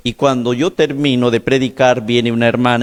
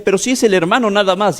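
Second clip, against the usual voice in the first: mother's voice; 7 semitones higher than usual. Retold or imitated. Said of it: "la mamá le decía".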